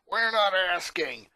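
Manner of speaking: slow, flat threat; a lightly voiced thug closing in; menacing bully. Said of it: "another said as they surrounded the poor boy".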